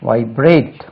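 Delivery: வைப்ரேட் stressed on ப்ரேட்; வைப்ரேட் as vai-BRATE, second syllable strong. Shown as a demonstration. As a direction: put the beat on the end of வைப்ரேட். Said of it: "second syllable stress".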